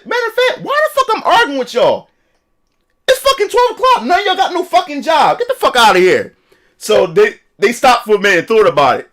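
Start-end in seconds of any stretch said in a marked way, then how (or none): 0.0-6.3 higher, heated retold rant; dad mock-yelling at the corner guys; angry dad yelling. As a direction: tell the loafers off.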